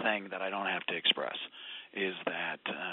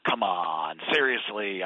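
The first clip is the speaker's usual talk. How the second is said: low, louder scoffing doubt; mock disbelief, a bit lower and louder; skeptical scoff; 4 semitones lower, 4 dB louder, slower than usual. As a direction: brush it off like a doubter. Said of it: "and they're skeptical".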